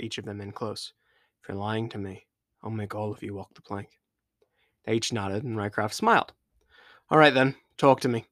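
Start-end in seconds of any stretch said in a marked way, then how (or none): 1.4-4.0 softer, lightly menacing captain; a quiet warning pulled in close; captain threatening his crew softly. Acted. 7.1-8.2 louder, brisk pirate captain; captain ordering his crew to speak, louder. Acted.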